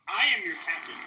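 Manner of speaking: firm declaration. Shown as a demonstration. Streamer claims the ship from Jay, loud and firm. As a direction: declare it like the new captain. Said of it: "I can't do a Somali accent".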